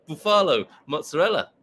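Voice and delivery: "buffalo" as boo-FAH-lo, with amusement; Mexican friend's pronunciation. Retold or imitated. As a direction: stretch the middle of "buffalo" to rhyme with Ruffalo. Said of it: "the way my Mexican friend says".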